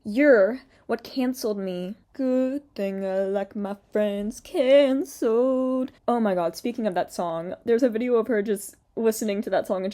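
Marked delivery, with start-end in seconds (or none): 0.0-5.9 slow, drawn-out mocking taunt; sneering, hammed-up imitation; mock villain. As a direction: parody her smug accusation. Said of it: "she's like".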